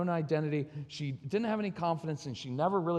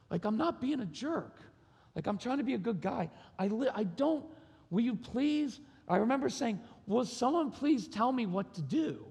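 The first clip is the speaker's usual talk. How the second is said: higher, mildly pleading voice; retold tearful plea; 5 semitones higher than usual. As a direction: plead as if near tears, without sobbing. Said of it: "I started crying".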